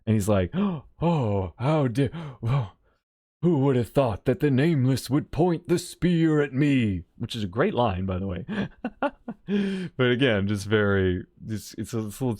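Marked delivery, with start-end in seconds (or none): 0.5-7.0 mock offended. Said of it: "he acts all offended".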